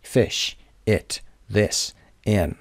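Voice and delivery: short i in Fish, it, this, in; short vowel. Shown as a demonstration. Teacher drills short i words for learners, short vowel. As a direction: keep each vowel brief, one word at a time. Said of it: "اما یه کوتاه".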